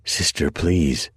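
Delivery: slow, soothing plea; slowly calm her down, stressing please; pleading to calm. Acted. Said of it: "in an attempt to defuse the situation".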